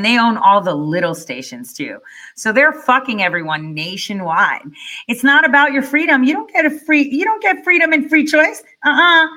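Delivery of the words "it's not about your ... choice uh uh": high-pitched, incredulous taunt; mocking. Commentator taunting listeners who think they have free choice, mocking. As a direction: scoff at the very idea, pitched way up.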